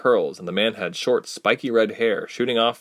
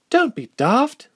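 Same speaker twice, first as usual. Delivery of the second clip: high, slow, scornful elf woman; a haughty retort, drawn out; snapped; 4 dB louder, slower than usual. Acted. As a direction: blonde elf dismissing her companion, a mild snap. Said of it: "the blonde snapped".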